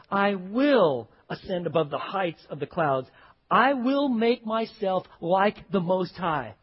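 slow, loud proclamation of a proud fallen angel; Satan's boast. Acted. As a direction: declaim it as the arrogant Lucifer. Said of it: "And listen to what he says".

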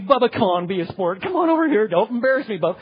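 imitating a desperate parent; pleading parent. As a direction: beg the child to come over. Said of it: "then you're pleading".

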